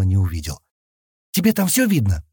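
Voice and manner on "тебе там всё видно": plain reading voice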